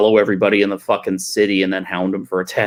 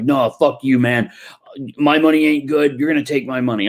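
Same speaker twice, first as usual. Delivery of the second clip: retelling a pushy guy, mildly heated; a touch of indignant insistence; mock angry drunk; 4 semitones higher than usual. Customer insists the tattooer take his money, mildly angry. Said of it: "he was getting mad".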